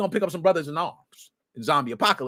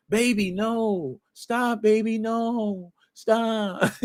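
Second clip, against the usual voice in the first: Kevin Hart voice; much slower than usual. Retold or imitated. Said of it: "My Kevin Hart voice".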